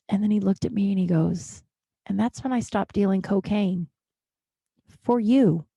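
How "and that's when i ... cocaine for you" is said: earnest imitation of dad, long pause before the last words; dead serious. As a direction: deliver dad's big confession gravely, then pause for effect. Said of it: "he was so serious".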